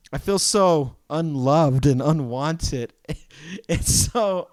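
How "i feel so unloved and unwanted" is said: mock self-pity. Mock hurt at dealers.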